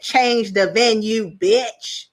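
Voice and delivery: slow, emphatic mock order; hammed-up Heavenly demand; mock bossy demand. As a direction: deliver it like her attitude. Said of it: "That was basically her energy".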